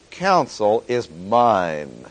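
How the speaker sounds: "mine" drawn out long and weighty; slow reading, leaning on "mine"; stress on MINE. Shown as a demonstration. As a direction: stretch out the word "mine" for emphasis. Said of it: "Stress on the word mine".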